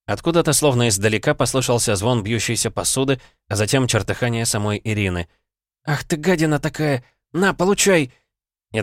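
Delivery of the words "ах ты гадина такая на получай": high, furious yell at the creature; angry shout. Acted. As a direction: shout it as you strike. Ira fighting the creature.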